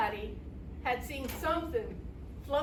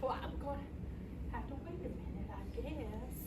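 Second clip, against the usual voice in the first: soft, hesitant resignation; subdued; 3 semitones lower, 10 dB quieter than usual. Acted. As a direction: drop the voice low and back off. Sheriff gets no response, gives up.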